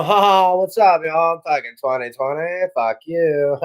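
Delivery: lightly voiced cocky bro; twenty twenty as a dude. Streamer personifies twenty twenty as a rude bro, lightly voiced. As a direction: swagger it like a rude party guy. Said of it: "This is like, you know".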